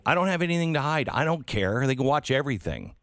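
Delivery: quick, high mocking voice of a careless citizen; mock dismissive. Host mimicking people who say they have nothing to hide, mocking high and fast. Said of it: "So explain to people who say".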